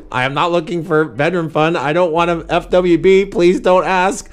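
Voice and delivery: mocking read-out, pitch climbing toward the end; sarcastic reading. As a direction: read someone's demands back sarcastically. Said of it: "my sarcastic voice".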